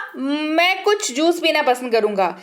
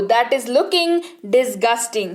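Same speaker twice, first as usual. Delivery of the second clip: disgusted; 2 semitones lower, much slower than usual. Shown as a demonstration. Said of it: "घृणित चीज".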